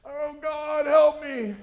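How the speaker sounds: high, loud imitated plea, HELP pushed hard; desperate prayer. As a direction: play a man begging God to save him. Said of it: "praying for deliverance".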